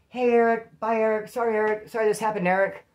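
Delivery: imitating a couple's pointed goodbyes; retold couple calling out. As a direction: call goodbye after someone being led away. Couple call farewells with fake name.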